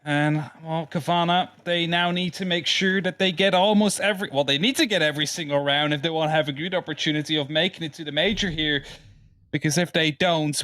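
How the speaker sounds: distant, off-mic voice; far from mic. Real, not acted. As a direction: speak from across the room. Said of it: "why I sound a bit far away".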